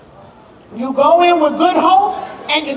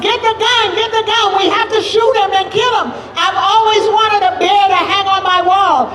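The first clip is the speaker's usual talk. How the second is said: higher, pressing shouts to grab the gun; urgent hunter's call; 3 semitones higher, faster than usual. Acted. Father urging Mubasa to shoot the bear, excited higher calls. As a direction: hurry him, you want that bear.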